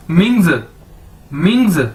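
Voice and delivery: मिंग्स as falling "ming-zuh"; model pronunciation. Shown as a demonstration. Teacher drilling the two syllables combined, model pronunciation. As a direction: repeat मिंग्स as one joined word. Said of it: "इकट्ठा कर दिए तो क्या बन जाएगा?".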